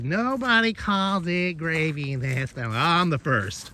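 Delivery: hint of an indignant mom; imitating mom. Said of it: "but she goes".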